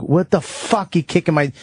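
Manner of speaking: high, angry yell at the dog kicker; snapping. Retold or imitated. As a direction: snap at him, pitch jumping up. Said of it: "And I snapped".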